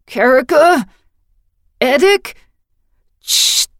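sudden high, loud frightened calls; fearful voice spiking. A narrator's reading. Bound brother calls out in fear, voice spiking. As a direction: panic breaking through, then hushing himself. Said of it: "voice spiking as he tried to control his fear".

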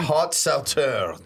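Haut Sauternes said slowly as "oh so-TERN"; careful French pronunciation. Shown as a demonstration. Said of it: "the hard pronunciation here?".

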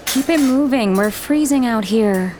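put-on high, slow complaining girl voice; impatient girl. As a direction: hurry her along, shivering cold.

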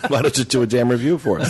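grand movie star voice; suave old film star. Retold or imitated. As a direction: play it like a matinee idol. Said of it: "my movie star voice".

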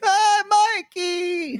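high, slow drawn-out grandma call; old grandma voice. Retold or imitated. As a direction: stretch it out fondly as an old grandma. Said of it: "She'd be like".

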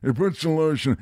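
killer's voice from Silence of the Lambs; imitating a creepy film character; Ted Levine. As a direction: put on a movie villain's odd voice. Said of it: "He was the guy from Silence of the Lambs who's like".

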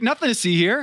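high, airy sarcastic brush-off; mock innocent. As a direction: wave it away with fake innocence. Ironic dismissal after shout.

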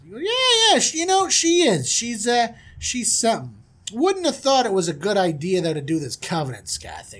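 high, excited gush coming down; hammed-up lovestruck big shot; smitten prince. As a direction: gush over your girl, then settle. Prince gushes about Dina.

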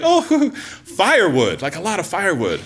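high laugh through the word firewood; teacher cracking up as she explains. Retold or imitated. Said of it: "She's like".

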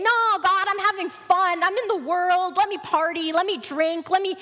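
mock pleading to be left to party; lightly acted rebellious child; defiant protest. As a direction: push back in a rising, insistent list. Acted carefree people refusing God's call.

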